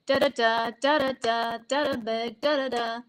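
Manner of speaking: "Da, da, da" chanted in repeated groups, last beat stressed; each "da, da, da" lands on its final beat; same rhythm each time. Shown as a demonstration. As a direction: chant "da, da, da" evenly, landing on the last da. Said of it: "it's the same rhythm".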